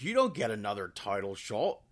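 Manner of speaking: bad mock Irish accent, lightly done; a clumsy stab at an Irish lilt for the champion; terrible Irish accent. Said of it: "That was a terrible Irish accent".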